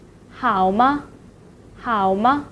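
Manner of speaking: 吗 short and light at the end of 好吗; neutral-tone demo. Shown as a demonstration. Teacher shows learners how to ask if it's okay, neutral-tone demo. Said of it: "It is short and light".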